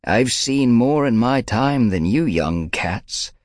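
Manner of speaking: slow, chesty elder rumble; elder scolding young cats; rumbling old she-cat. A narrator's reading. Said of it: "Yellowfang's voice rumbled from deep within her chest".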